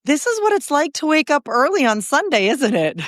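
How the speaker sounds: hoarse, almost no voice left; lost voice. Real, not acted. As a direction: push words through a worn-out raspy voice. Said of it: "I have no voice".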